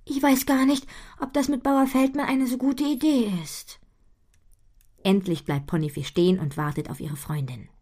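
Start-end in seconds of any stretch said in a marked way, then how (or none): 0.0-3.8 doubtful pony voice. Acted. Butterblume voiced.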